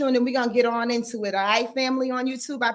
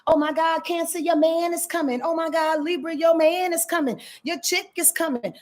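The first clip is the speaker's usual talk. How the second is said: mock cute astrologer; 3 semitones higher than usual. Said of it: "Some astrologers like to be cute and entertaining with it".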